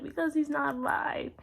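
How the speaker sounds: whispered heartbroken answer; barely able to say it; grieving whisper. Retold or imitated.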